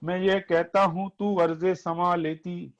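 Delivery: poetry recitation. Acted. Repeating verse on request.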